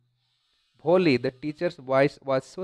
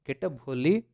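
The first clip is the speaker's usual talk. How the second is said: friendly, loving; 3 dB quieter, slower than usual. Acted. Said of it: "उनकी आवाज़ एक दोस्त के जैसा था".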